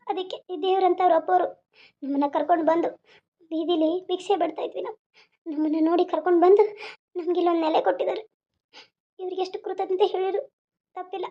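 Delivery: moved to tears, voice sinking at times; tearful. Acted. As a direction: tell it through held-back tears. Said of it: "ಯಾಕೆ ಅಳ್ತೀರಿ".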